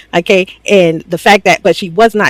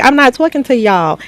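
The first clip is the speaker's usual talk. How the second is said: mock snapping; 6 semitones higher than usual. Heated argument, Sincere.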